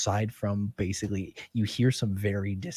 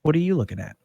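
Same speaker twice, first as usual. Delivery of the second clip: higher, louder mare voice with attitude; sassy horse; 8 semitones higher, 7 dB louder, much faster than usual. Acted. Gray mare challenging the druid who stares, higher sassy voice. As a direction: give him a rude side-eye in sound. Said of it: "She looks at you and goes".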